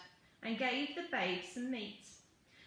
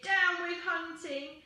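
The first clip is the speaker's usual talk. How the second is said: high, loud, slow protest chant; pitched-up singsong rebel cry; hooting; 6 semitones higher, 6 dB louder, slower than usual. A narrator's reading. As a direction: hoot it like a little duck-billed dinosaur. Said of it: "For he hooted".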